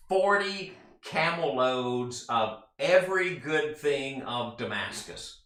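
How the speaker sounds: "Forty" slowly drawn out and weighted; stress on forty. Shown as a demonstration. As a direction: lean hard into "Forty camel loads", slowly. Marvels at size of gift.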